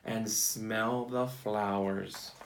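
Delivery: storybook read-aloud for a class; picture-book storytime voice; reading to children. Acted.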